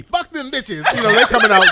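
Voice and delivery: a hint of laughing scorn; light mocking laughter through the words. Real, not acted. Host mocking old rap groups to cohosts, laughing lightly.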